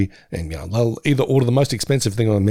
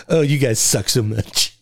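mock grumbling; slower than usual. Joking reply to rich buddies.

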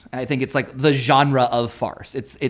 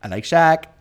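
weird voice. Retold or imitated. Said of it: "in the weirdest voice and in the weirdest delivery".

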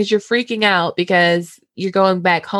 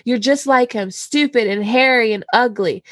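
mock yell; 4 semitones higher than usual. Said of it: "Sansa yelled".

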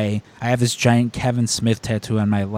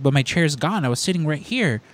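higher, aggrieved protest; fake indignant; 4 semitones higher than usual. Fan insists to the usher, mock aggrieved. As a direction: play the wronged fan. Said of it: "I just fake lose it".

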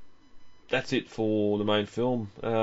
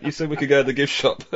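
put-on whiny kid voice; 6 semitones higher, 3 dB louder than usual. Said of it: "the annoying child saying".

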